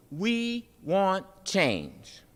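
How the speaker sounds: slow, deliberate demand. Acted. We answer what do they want, slow demanding. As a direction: spell out each word like a demand. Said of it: "We say demandingly".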